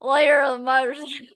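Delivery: loud, fast growl of the biker line; mock biker voice. Doing the biker voice for her co-host, loud and fast. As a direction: bark the biker line as a joke. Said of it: "the fucking voice".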